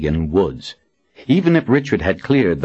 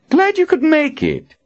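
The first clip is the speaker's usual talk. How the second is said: higher, jovial confident man. Acted. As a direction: greet her jovially. Nathan's voice.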